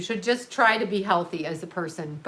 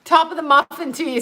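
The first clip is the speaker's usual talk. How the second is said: high, loud sitcom slogan delivery; loud catchphrase; 7 semitones higher, 6 dB louder than usual. Shown as a demonstration. Nailing the Seinfeld muffin slogan at last, loud and high. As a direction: proclaim it like the shop's cheery greeting. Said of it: "See, I got it".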